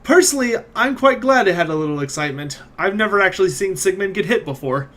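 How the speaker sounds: a hint of a laugh behind it; half laughing. Theodora on seeing Sigmund get hit, half laughing. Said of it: "sort of laughs and says".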